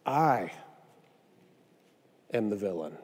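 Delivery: low, hushed admission; sober confession. Acted. Preacher owning up as the villain, sober hushed confession. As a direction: drop right down, low and soft. Solemn personal admission of guilt.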